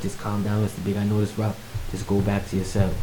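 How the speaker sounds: steadying, understated reassurance; retold calming voice. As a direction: talk someone down quietly. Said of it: "they calmed me down".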